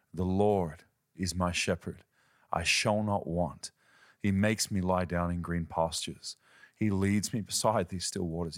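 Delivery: deep sincere reading. Retold or imitated. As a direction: read it from the depths, simply and humbly. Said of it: "it came out of the depths of who he is".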